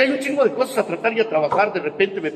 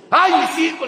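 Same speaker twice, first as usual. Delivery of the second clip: Llorona wail; 9 semitones higher, 5 dB louder than usual. Retold or imitated.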